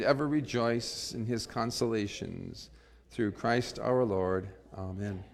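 prayerful invocation, rising then fading to a hushed amen; led prayer. Acted. Pastor leading the Holy Spirit prayer, reverent prayer voice. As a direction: pray it aloud for the whole church.

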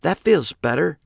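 tiny cartoon voice. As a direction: push the helium voice up another notch. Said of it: "her voice a notch higher now".

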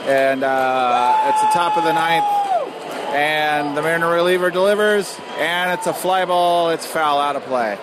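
slowed, excited game call; live play-by-play. Real, not acted. Host calling the ballgame for the audience, live play-by-play. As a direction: call the last pitch as it happens.

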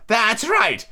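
high-pitched shouted approval; shouting Queen. A narrator's reading. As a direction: call it out imperiously. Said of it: "shouted the Queen".

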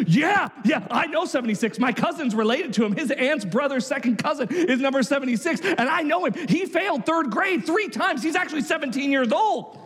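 lightly acted know-it-all kid; gossiping schoolboy. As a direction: spread a tall tale as insider knowledge. Boy spreads a wild rumour.

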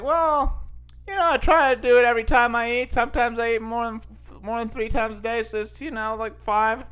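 high, eager bragging; proud boast. Retold or imitated. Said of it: "And I'm like".

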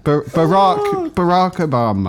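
ba-ROCK Obama, stretched out; Barack said slowly as ba-ROCK. Shown as a demonstration. Showing a friend how to say Barack slowly. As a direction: correct the Barack pronunciation slowly. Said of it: "the way you pronounced".

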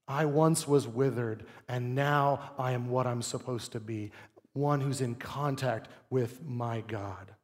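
soft, slow, hushed voice of thanks; grateful worship. Retold or imitated. Preacher voicing a believer at rest, soft and slow. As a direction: breathe it out in quiet awe.

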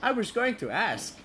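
high mock Dutch accent. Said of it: "In a very Dutch accent".

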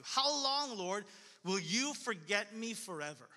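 drawn-out, pleading prayer; lament. Acted. Preacher reads David's psalm to the congregation, slow pleading lament. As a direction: press each question on God. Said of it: "David's many prayers of lament".

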